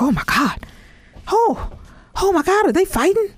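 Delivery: high, squealing panic over a street fight; mock panicked friend. Imitating Travis panicking at a fight outside the van. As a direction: play the scared friend, voice jumping way up. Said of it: "He was like".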